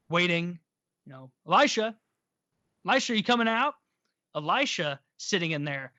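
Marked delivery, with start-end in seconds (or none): 1.5-3.7 loud impatient call at the door; calling out Elisha's name from outside. Retold or imitated. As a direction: shout toward the house, waiting.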